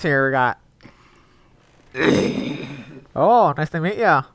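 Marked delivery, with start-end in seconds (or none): 1.9-3.1 dry fake cough. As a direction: cough into the phone. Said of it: "You sick?".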